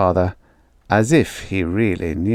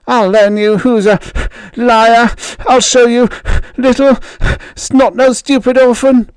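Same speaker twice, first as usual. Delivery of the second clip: high, loud vicious jeer; bully yelling; 14 semitones higher, 6 dB louder than usual. Acted. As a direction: spit the insult while fighting. Bully beating the boy.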